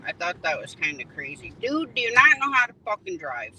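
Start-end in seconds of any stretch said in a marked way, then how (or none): 1.6-3.5 shouting at another driver in traffic; road rage. Real, not acted. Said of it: "Sorry, I get road rage".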